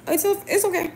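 high-pitched quick reassurance; imitated reassurance. Offering to watch the friend's kids, high reassuring.

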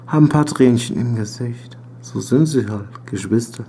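Gedicht vortragen, ruhig und nachdenklich; poem recitation. Acted. Reads his poem aloud.

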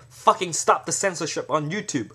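angry protest chant; forceful demand. Shown as a demonstration. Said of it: "if someone say".

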